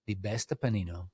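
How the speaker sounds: light mock Italian accent, savoring each food word. Describing his lunch to the host, a light mock Italian accent. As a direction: lay on a gentle Italian accent listing sandwich fillings. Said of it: "talk to me in an Italian accent".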